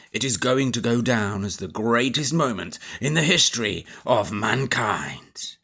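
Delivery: grand army major making a speech; booming Major. A narrator's reading. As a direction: proclaim it like a proud officer.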